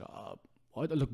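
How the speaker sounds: breathless, whispered panic; hushed flustered mumble; panicked whisper. Retold or imitated. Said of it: "Whipped out the phone and said".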